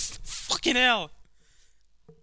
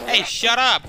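higher, louder snap of shut up; loud shout; 8 semitones higher, 8 dB louder than usual. Real, not acted. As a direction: yell at the annoying character. Yells at nagging character.

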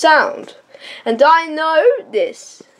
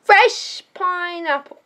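street vendor call; 5 semitones higher than usual. Pretend. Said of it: "We know you're selling".

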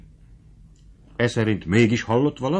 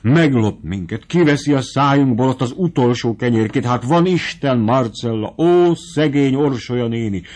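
lamenting; 3 semitones higher than usual. Acted. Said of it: "sopánkodott".

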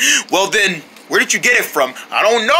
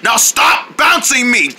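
angry shout; 4 semitones higher, slower than usual. Acted. Ball angry at being bounced.

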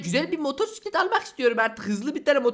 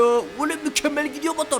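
ordinary talk, nothing marked

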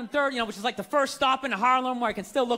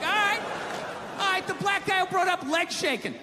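worked-up argument. Retold or imitated. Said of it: "And I'm like".

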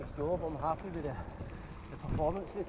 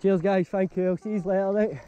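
calling out; 2 semitones higher, 9 dB louder than usual. Real, not acted. Calling out to passing walkers.

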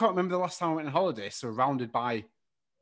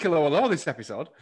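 put-on French accent; 3 semitones higher, 5 dB louder, faster than usual. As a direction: ham up a French hello. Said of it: "In the worst French accent possible".

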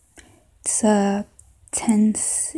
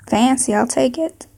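put-on southern accent; 3 semitones higher than usual. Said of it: "maybe a southern accent".

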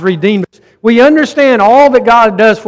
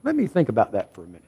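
dismissive stalling; 9 semitones lower, 9 dB quieter, much faster than usual. Retold or imitated. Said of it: "you're gonna go".

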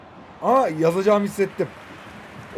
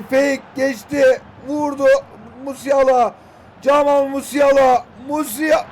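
excited commentary shout; 5 semitones higher, 4 dB louder, slower than usual. Real, not acted. Shot on goal, calling player.

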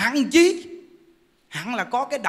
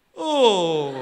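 a loud, laughing "Ồ" of delight; joyful greeting; 7 dB louder than usual. Shown as a demonstration. Monk showing how to greet a former spouse, loud and delighted. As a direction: greet an old flame like a long-lost friend. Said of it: "Bây giờ mình gặp mình nói".

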